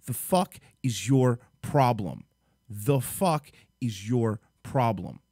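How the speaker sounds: word-by-word angry demand; slow anger. Real, not acted. Vlogger demanding answers from the parents, slow anger. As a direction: space out each word, incredulous. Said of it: "I'm fucking livid".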